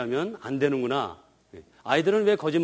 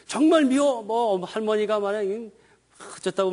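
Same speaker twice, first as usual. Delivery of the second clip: put-on defiant child; 4 semitones higher than usual. Child talks back when scolded.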